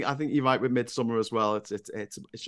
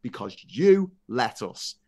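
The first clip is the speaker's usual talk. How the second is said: slow, cold psychopath line; drawn out and sinister; slow menacing; slower than usual. Retold or imitated. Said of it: "repeating the psychopath's line".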